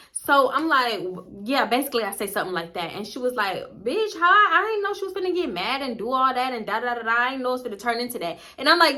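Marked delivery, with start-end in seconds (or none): 3.8-8.4 high, whiny imitation of the friend; mock friend. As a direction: mimic her defensive excuse, pitched up. Friend voiced in a retold argument.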